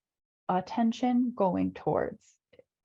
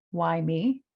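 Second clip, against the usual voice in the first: a mock-whiny pity-party moan, said louder; whiny complaint; 2 semitones lower, 3 dB louder than usual. Client complaining to coach in a whiny pity-party voice. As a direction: whine it like someone feeling sorry for themselves.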